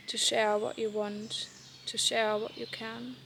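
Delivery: measured poem recital with pauses between lines; poem reading. Acted. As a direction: read each line as a gentle, separate instruction. Reads her poem aloud.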